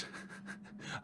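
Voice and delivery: soft, breath-only chuckle; sheepish laugh. Real, not acted. Player after botching an explanation, sheepish laugh. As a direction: laugh quietly at your own slip.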